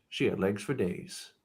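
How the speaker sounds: slow, soft hardboiled narration; noir detective. Acted. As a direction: brood like a film noir narrator. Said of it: "your sexy neo-noirs".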